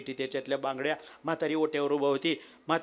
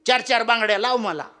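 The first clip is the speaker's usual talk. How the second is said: put-on old woman; 7 semitones higher, 7 dB louder than usual. Old woman invites seller.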